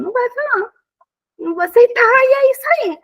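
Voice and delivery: high, loud and final; firm loud refusal. Real, not acted. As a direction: shut it down firmly. (recusa firme, alta e aguda)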